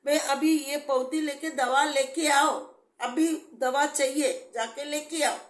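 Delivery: re-live the desperate prayer, voice lifted; retold tearful plea. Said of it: "road पे जोर जोर से रो के खड़ी हो गई". (रोते हुए प्रभु से गुहार की नकल)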